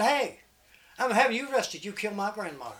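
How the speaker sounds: loud, high holler, easing off; storyteller's mock outraged shout; shouted accusation. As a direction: call out the accusation. Acted angry accusation after running up.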